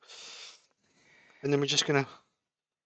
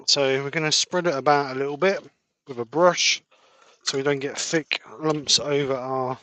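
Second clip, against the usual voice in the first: slightly wheezy, breathy-sounding talk. Real, not acted. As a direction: speak with a touch of wheeze. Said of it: "A bit wheezy".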